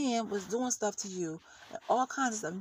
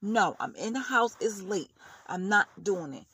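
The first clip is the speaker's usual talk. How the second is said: firm refusal. Pretend. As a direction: shut it down, no discussion. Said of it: "I would've said".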